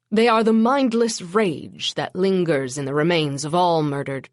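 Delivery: put-on solemn, ominous old vampire; Menkeres voice. Narrator voices Menkeres' long speech.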